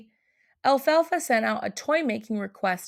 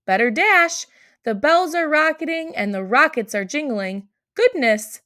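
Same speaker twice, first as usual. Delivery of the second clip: louder, higher flustered rush; hurried excitement; 5 semitones higher, 4 dB louder than usual. Acted. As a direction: dash off in a fluster. Elf rushing off.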